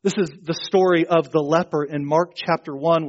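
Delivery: usual speaking voice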